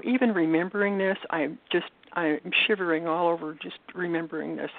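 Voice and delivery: trembling, shaky voice. Real, not acted. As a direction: voice shaking with emotion. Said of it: "I can tell, I hear it in your voice".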